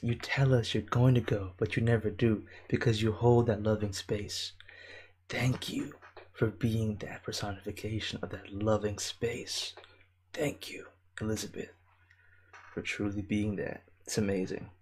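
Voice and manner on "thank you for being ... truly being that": tender thanks. Real, not acted.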